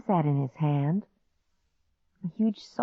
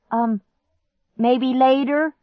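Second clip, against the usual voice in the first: calling back; 9 semitones higher, 5 dB louder, slower than usual. Acted.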